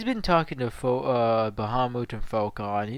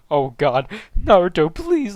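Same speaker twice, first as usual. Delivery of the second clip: begging; 5 semitones higher, 9 dB louder than usual. Acted. Falcon begs Naruto in acted scene.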